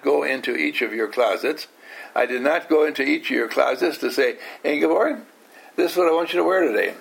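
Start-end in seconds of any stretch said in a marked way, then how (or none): 4.6-6.9 quick, bossy dictating voice; fast mock order to a student; bossy instructor. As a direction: rattle off the order like a bossy teacher. Teacher acts out bossing Ingeborg.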